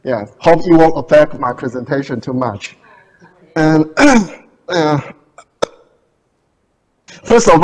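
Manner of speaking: muffled behind a face mask; through a face mask. Real, not acted. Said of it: "I have to wear a face mask".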